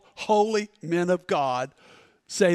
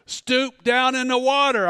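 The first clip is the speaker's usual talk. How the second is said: calm, even command with a falling close; voice of God; 3 semitones higher than usual. Retold or imitated. Preacher voicing God's command to him in the lake, calm and firm. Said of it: "the voice just said this".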